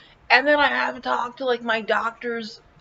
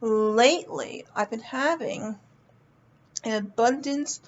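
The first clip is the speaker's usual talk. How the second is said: usual speaking voice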